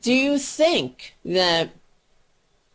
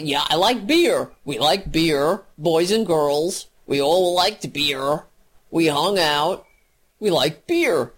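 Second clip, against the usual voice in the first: mock Kavanaugh; 4 semitones lower than usual. Mocking Kavanaugh's testimony.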